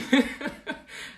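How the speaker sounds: short high giggling laugh; passive-aggressive laugh. Real, not acted. Streamer laughing at her own remark, passive-aggressive laugh. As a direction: laugh to keep from crying. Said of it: "there's the laugh again".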